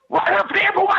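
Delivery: high pitched voice of a scared man; high nervous imitation. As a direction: point the way in a high squeaky voice.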